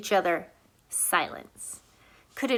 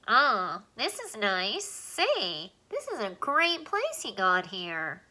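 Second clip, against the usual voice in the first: squeaky alien voice; 4 dB quieter, slower than usual. Acted. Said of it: "The squeaky voice was coming".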